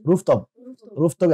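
word-by-word dictation with pauses between items; vocabulary drill. Shown as a demonstration. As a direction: model each word clearly for pupils to repeat. Models vocabulary for class to repeat. (نطق الكلمات للتلاميذ ليرددوها كلمة كلمة)

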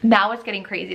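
normal talking voice

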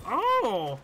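loud, high, thrilled outburst; high and loud, like you can't believe the shot landed; excited yelp. Real, not acted. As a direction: yell it out amazed at your own play. Hyped after a big play.

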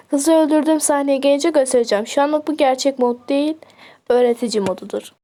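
stiff robotic monotone. Real, not acted. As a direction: talk like a robot. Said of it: "Ya ben niye robot gibi konuşuyorum ya?".

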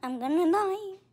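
loud, high panic; panicked shout. Real, not acted. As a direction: yell it in alarm. Game danger, exclaiming.

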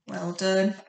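crisp isolated phonics sounds, each pure and clipped; speech therapist. Shown as a demonstration. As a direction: say each letter sound short and pure, no added vowel. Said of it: "I'll say the sound and then you repeat".

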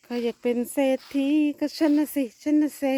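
high, teasing play voice; playful joke. Pretend. Joking about the money plant, high playful voice. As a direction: tease yourself about getting rich.

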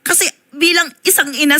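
real tears breaking through; tearful. Real, not acted. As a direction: voice catching on a sob as a mother. Mother missing her children.

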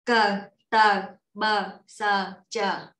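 "Cờ, tờ, bờ, sờ, chờ" with tightened initial consonants; tense consonants. Shown as a demonstration. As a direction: tighten the first sound of each syllable in "Cờ, tờ, bờ, sờ, chờ". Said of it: "chờ căng lên".

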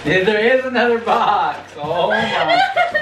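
laughing through the words. Real, not acted. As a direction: laugh while you talk. Laughing at more boxes.

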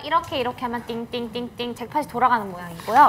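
home shopping host. Pretend. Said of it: "홈쇼핑처럼 막 해줘야 돼요".

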